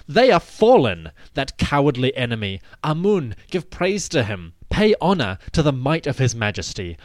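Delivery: a mild king's triumphant call over the field. Acted. King calls out praise of Amun on his path, proclaiming. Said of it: "his majesty called out upon his path".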